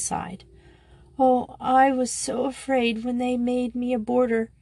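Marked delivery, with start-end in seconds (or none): 1.2-4.5 put-on tearful girl, higher pitch; sobbing. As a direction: speak through a light sob, higher. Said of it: "she sobbed".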